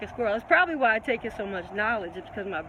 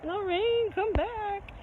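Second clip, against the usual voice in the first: calling out; 11 semitones higher, much slower than usual. Real, not acted. Calling after a departed viewer.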